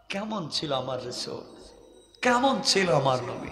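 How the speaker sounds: soft, falling rhetorical questions; hushed wonder. Real, not acted. Preacher reflects on the Prophet before congregation, hushed wonder. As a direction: drop right down and ask it quietly.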